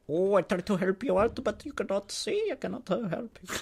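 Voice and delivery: high, soft excuse-making voice; mock unhelpful clerk. Store worker to customer who cannot see, mock apologetic. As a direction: put on a high, feeble clerk voice.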